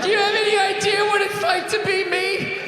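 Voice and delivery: high, loud sing-song mockery of a complaint; mocking whiny woman. Mocking white women complaining.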